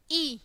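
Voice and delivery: ई as an isolated "ee" vowel; letter sound demo. Shown as a demonstration. Teacher showing the sound in igloo, letter sound demo. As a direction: sound out ई on its own. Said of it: "sound कैसे आएगी आई की".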